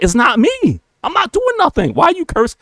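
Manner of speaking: squeaky high, wounded innocence; high whiny I-did-nothing plea; mock innocent protest. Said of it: "I'm like".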